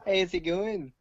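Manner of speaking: put-on botched Australian accent with a Scottish slip; Australian gone Scottish. Retrying after slipping into Scottish, botched Australian accent. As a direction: aim for Australian and land near Scottish. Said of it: "I got Scottish on it".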